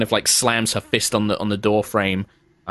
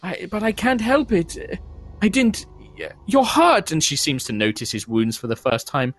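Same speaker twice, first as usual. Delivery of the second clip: put-on high, fast, fearful young woman; trembling sister confesses to Ismark; frightened Irina; 11 semitones higher than usual. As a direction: pour out her fear to her brother. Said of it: "her hands are kind of shaking and trembling".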